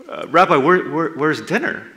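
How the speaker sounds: loud, indignant question; indignant demand. Acted. Hungry Peter demands dinner from Jesus, loud and indignant. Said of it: "he's like".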